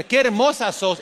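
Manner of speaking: a vulture tossing off "Qué hermosa sos"; lightly voiced flatterer. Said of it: "le dijera". (un halagador ligero: "Qué hermosa sos" más agudo)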